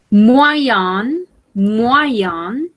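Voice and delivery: "moyen" said slowly and clearly as mwa-yan, rising at the end; teacher modelling "moyen" for the class to repeat; modelled pronunciation. Shown as a demonstration. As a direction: spell out "moyen" sound by sound. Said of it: "La prononciation, c'est".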